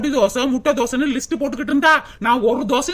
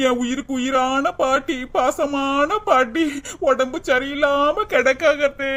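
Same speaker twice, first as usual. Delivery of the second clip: melodramatic lament; slower than usual. Pretend. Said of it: "நம்மளோட நடிப்பை".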